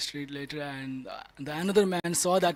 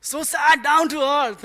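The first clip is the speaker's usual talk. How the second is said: loud, high and slow through laughter; cracking up while telling it; laughing hard at own joke; 5 semitones higher, 10 dB louder, slower than usual. Real, not acted.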